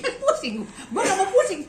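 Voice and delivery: laughing through the words; amused, laughing while speaking. Real, not acted.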